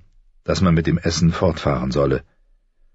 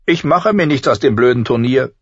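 put-on higher, defiant young voice; sulky girl; 8 semitones higher, 3 dB louder than usual. A narrator's reading. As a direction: toss it off with defiance. Arya sulks about the tournament.

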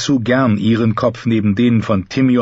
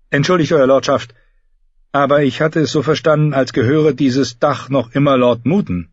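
lightly voiced knight, higher pitched; politely objecting knight; 5 semitones higher than usual. Knight challenging the lord over whose roof it is, lightly polite objection. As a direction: object with courtly politeness, pitch slightly raised.

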